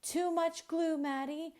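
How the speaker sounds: squawking teacher. Acted. Teacher squawking at Maddie about the glue, high squawk. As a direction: screech it like a panicked bird. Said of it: "my teacher squawks".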